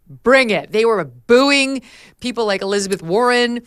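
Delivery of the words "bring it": rowdy crowd quote. Retold or imitated. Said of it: "crew was like".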